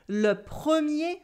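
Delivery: le premier, said clearly as a model; model French pronunciation. Shown as a demonstration. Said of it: "repeat after me".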